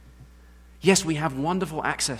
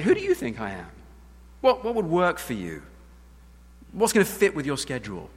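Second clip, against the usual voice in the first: higher, eager mock customer service; mock people-pleasing; 4 semitones higher than usual. Mock God eager to suit Moses, higher and fawning. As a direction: play God as a pushover.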